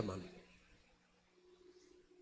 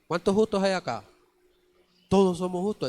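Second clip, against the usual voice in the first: rousing call; 5 semitones higher, 6 dB louder than usual. Acted. Preacher rousing the congregation.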